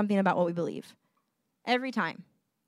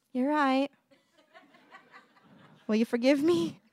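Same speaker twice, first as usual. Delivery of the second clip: tender apology; 4 semitones higher than usual. Retold or imitated. Voices own apology to child.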